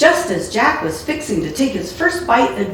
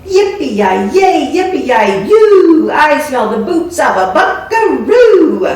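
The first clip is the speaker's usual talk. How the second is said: higher, louder bellowing giant chant; roared; 7 semitones higher, 7 dB louder, much slower than usual. Acted. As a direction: roar it out like a cowboy giant sniffing prey.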